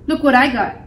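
understated storybook shout; shouted taunt. A narrator's reading. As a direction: call out to lure the cat. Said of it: "he shouted".

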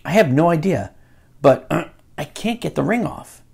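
ordinary delivery

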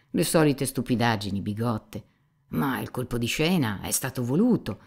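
lightly voiced cynical know-it-all, lively; understated scorn for pious gossip; Rakitin sprezzante. Dialogo letto, Rakitin sarcastico. (cinico saccente, appena caratterizzato)

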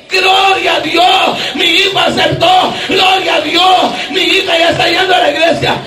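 joyful mother. Retold or imitated. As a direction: cry out like an overjoyed mother praising God. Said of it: "mamá danza de alegría". (madre gritando de alegría)

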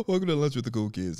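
quick opener through a laugh; giggling fast welcome. Real, not acted. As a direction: rush it out while still chuckling.

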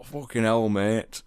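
broad Yorkshire swearing among mates, "mate" said as met; rough, casual Yorkshire exclamation; thick Yorkshire accent. Retold or imitated. Swearing with his mates in a thick Yorkshire accent. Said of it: "when I'm with my mates".

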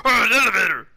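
gasp, then a quick, delighted burst; sudden glee at the discovery; excited gasp. Real, not acted. Finding an elevator in game.

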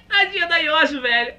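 high laughing sympathy; laughing pity. Real, not acted. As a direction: laugh while pitying her. Rindo com pena. (rindo com dó)

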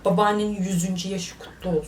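breathy whisper, barely voiced; sheepish whispered phone excuse.

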